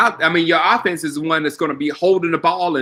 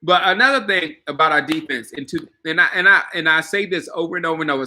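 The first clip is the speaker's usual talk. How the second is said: ice in mouth. Real, not acted. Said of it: "Sorry, I got a piece of ice in my mouth".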